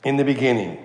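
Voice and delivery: "In the beginning" as a measured, stand-alone statement; weighty "In the beginning," isolated by pauses; deliberate emphasis. Shown as a demonstration. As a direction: set "In the beginning" apart and let it fall. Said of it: "let me try to emphasize".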